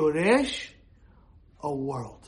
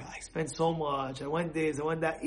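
hurt complaint; 4 semitones lower, 8 dB quieter than usual. Retold or imitated. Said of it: "He's like".

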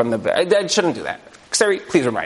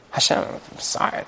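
tearful whisper; 6 dB quieter than usual. Retold or imitated. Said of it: "like, crying".

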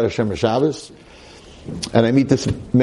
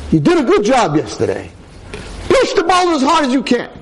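voice of God; 13 semitones higher than usual. Acted. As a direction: command him like God from above. God praises and commands.

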